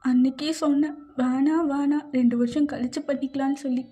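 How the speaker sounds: playfully blaming, pitched a little up; mild scolding. Acted. Pregnant wife blaming husband for it, mildly scolding. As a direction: scold him lightly, with an insistent lift.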